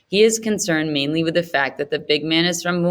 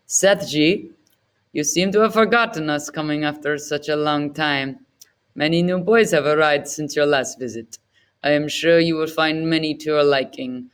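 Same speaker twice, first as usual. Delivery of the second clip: a hint of a fawning middleman, smooth and eager to please; lightly voiced Gupta. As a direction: play the flattering agent, only slightly off your own voice. Gupta voices Sethji ingratiatingly.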